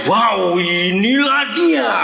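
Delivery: long, drawn-out wow of amazement; slow, hammed-up astonishment; surprise. Shown as a demonstration. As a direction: act out being amazed at a first sight. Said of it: "atau surprise?".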